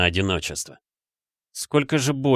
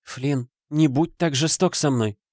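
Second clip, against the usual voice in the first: pleading; 7 semitones higher than usual. A narrator's reading. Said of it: "взмолилась мать".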